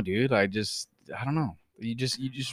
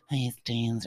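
monotone greeting; 3 semitones lower, 6 dB quieter than usual. Retold or imitated. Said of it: "with that tone".

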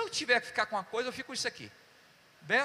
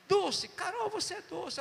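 tag; 10 semitones higher, slower than usual. Retold or imitated. Retells affectionate words to Carol.

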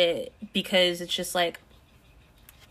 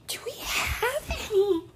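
surprised; 4 dB quieter than usual. Real, not acted. Discovers no creamer.

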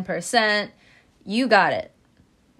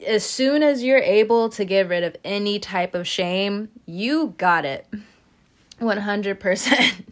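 motivational; 4 dB louder than usual. Acted. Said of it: "I sound very motivational right now".

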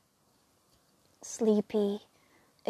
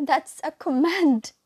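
louder, higher desperate command; pleading command; 5 semitones higher, 8 dB louder than usual. Acted. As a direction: beg while giving the order. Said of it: "her voice was pleading".

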